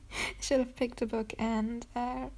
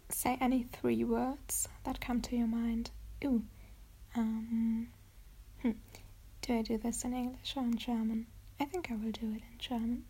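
ASMR whisper. Acted. Deciding on German words for viewers, whispered. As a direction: whisper the question to yourself.

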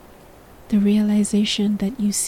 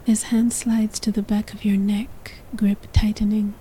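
whispered narration; faster than usual. A narrator's reading. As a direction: whisper the story close to the mic. Whispered throughout.

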